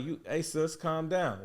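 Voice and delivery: retold calming interjection.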